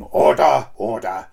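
sing-song Welsh "Order, order"; lilting Welsh Speaker of the House; Welsh accent. Retold or imitated. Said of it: "you've got this Welsh voice going".

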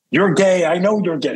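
mock taunting yell. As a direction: call it out like a mild mock taunt from a crowd. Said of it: "scream out".

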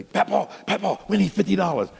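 mimicked child wheedling for money; imitated grandkids. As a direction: pester Grandpa like pleading grandchildren. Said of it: "don't let the grandkids around me".

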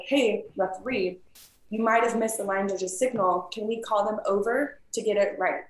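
courteous and easygoing, no challenge; respectful request. Shown as a demonstration. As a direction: ask the ref nicely to check the line judge. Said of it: "I think it's super respectful".

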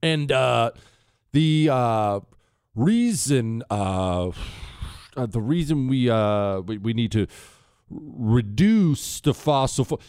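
a light mock of halting early Obama, stuck on every uh; early Obama imitation. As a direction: hesitate endlessly, hunting for each word like a careful politician. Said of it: "Everyone sounded like this".

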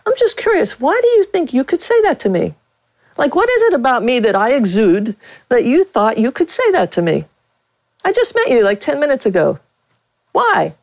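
high, faux-innocent questioning; mock sincere curiosity. Reporter retelling how she questioned Kirby Puckett, high and faux-innocent. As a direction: needle him with fake innocence. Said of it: "and I said".

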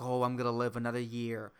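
relieved sigh voiced through the words; sighing turkey. Pretend turkey, spared by the president, sighs with relief. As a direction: breathe it out like a turkey spared from the oven. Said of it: "that's how a turkey sighs in my head".

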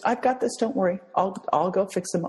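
lightly acted, high-pitched breezy reassurance; upbeat surgeon. Surgeon telling a worried mother he'll fix her son, upbeat. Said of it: "him being positive".

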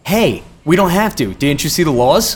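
mock a defiant customer; defiant guest. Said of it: "they're just gonna go".

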